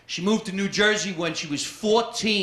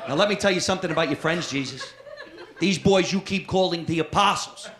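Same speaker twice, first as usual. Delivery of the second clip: mother lecturing Jesus; 6 semitones higher than usual. Retold or imitated. Mother complains to Jesus about his apostles, high and nagging. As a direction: nag him like an overworked mother.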